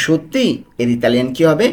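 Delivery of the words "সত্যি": সত্যি said as a surprised-sounding question. Shown as a demonstration. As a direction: ask সত্যি as if checking it is true. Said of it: "আমরা প্রশ্ন করি না যে".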